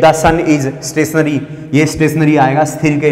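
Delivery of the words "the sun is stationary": very slow, word by word; slow, careful sentence reading; slow dictation. Shown as a demonstration. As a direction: read it out like dictation for the class. Repeats exam sentence slowly.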